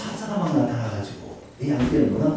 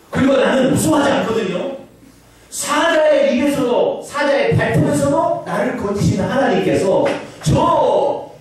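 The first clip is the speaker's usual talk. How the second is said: high, loud, slowed declaration of faith; bold boy David; 11 semitones higher, 4 dB louder than usual. Acted. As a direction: proclaim it fearlessly before the king. David boldly addresses the king. (왕 앞에서 당당히 선포하는 다윗, 높고 크게)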